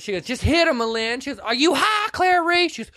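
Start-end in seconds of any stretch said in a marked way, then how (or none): 0.3-1.2 high, insistent mock urging; retold urging. Retelling Clary urging her to hit, high mock urging. 1.4-2.7 very high, incredulous question; mock disbelief. Retelling a reply to Clary's dare, high incredulous voice. Acted indignant reply in retold scene.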